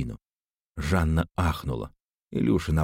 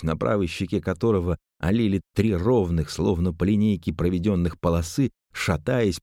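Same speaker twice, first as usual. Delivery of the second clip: usual speaking voice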